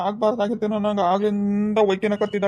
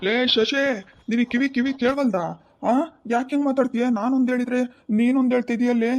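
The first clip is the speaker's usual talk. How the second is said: exasperated scolding; 5 semitones higher than usual. Acted. Husband scolds wife mishearing.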